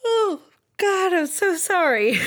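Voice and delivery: speaking through a yawn; words stretched by a yawn. Real, not acted. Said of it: "I'm just yawning".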